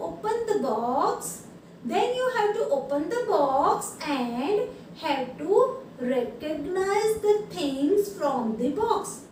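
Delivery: very slow, emphatic letter reading; drawn-out classroom read-aloud. Real, not acted. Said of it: "चलो आगे पढ़ती हूँ".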